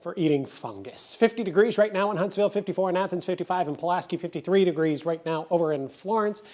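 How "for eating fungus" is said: slow, distaste on eating fungus; disgusted. Real, not acted. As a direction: sneer the words eating fungus.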